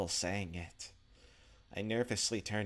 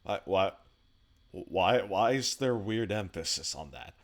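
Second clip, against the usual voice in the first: exasperated protest; 7 dB louder than usual. Real, not acted. Complaining about his own weird reading.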